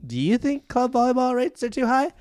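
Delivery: high, loud influencer parody; mock YouTuber. Host demonstrating engagement bait to viewers, mock YouTuber voice. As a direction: push for engagement in an exaggerated YouTuber voice. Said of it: "You know how every YouTuber says".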